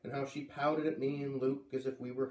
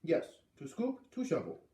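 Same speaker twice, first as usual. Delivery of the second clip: Missus Falala; 4 semitones higher than usual. Acted. Old neighbor voiced.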